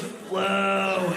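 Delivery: high, drawn-out swooping whoa; comic body sound effect. Retold or imitated. Comic voicing a body part in shock, swooping high noise. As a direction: imitate something popping out, high. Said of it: "Your asshole literally goes".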